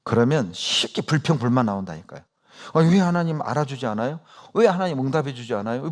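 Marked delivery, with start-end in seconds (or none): 2.7-5.9 a touch of grumbling, lightly voiced; mock complaint. Preacher imitating a grumbling believer, mild mock complaint. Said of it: "불평하고 있잖아요".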